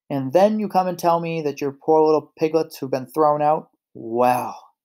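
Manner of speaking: loud, mildly booming wolf. Acted. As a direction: boom it out like a big wolf. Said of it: "heard the wolf's booming voice".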